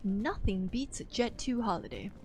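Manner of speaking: lightly voiced cheesy ad announcer; holiday ad voiceover. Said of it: "I hate that pun".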